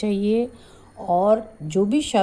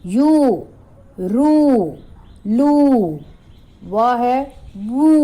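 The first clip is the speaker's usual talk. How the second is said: higher and louder, each syllable called out; loud drilled syllables; 3 semitones higher, 4 dB louder, slower than usual. Shown as a demonstration. Teacher calling syllables to children, loud. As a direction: ring out चू छू जू झू. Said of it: "य पर बड़े ऊ की मात्रा".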